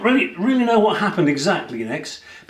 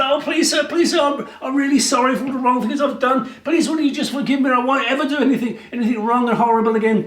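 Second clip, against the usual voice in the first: high, begging and whimpering; pleading prisoner; 8 semitones higher, faster than usual. Acted. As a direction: beg for mercy, voice pitched way up. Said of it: "And Barabbas said".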